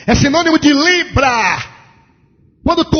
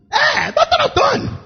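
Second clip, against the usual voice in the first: pompous judge; 13 semitones higher than usual. Retold or imitated. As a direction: puff up the title. Judge proudly names his title.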